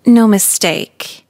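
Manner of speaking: mock evil. Teen narrator opening her story with a mock sinister confession. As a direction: draw it out like a movie villain confessing. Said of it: "that sounded evil".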